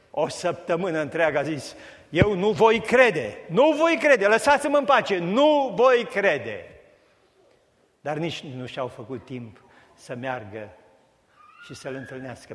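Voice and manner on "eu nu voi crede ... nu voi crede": loud, high, slow insistence; stubborn refusal. Acted. Thomas refusing the disciples, a loud stubborn protest. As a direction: hammer out each nu voi crede defiantly.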